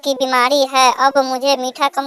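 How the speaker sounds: put-on very high-pitched old mother-in-law voice; mother-in-law character. Mother-in-law reports the doctor's advice to daughter-in-law, high character voice. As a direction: explain in a high put-on elder's voice.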